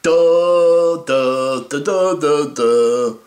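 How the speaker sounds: loud dumb mock "duh" sounds; clueless players. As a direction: play the players as blank-headed dolts. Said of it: "just standing there like".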